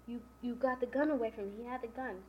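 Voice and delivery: lightly animated retold question; mildly pressing, retold. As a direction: put it to him with a little lift. A man questions George about gun.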